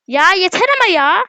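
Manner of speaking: exasperated. Real, not acted. Scolding the dog.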